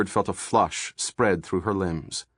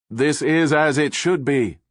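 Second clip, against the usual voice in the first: cried out; 4 semitones higher than usual. A narrator's reading. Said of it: "Buck cried".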